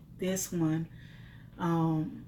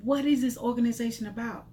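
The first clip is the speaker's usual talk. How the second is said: pleading with God; 4 semitones higher than usual. Retold or imitated. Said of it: "I began to say".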